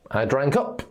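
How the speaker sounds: "drank up" with the stress on UP; stress second word. Shown as a demonstration. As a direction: lean on "up" in "drank up". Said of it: "You stress the second word".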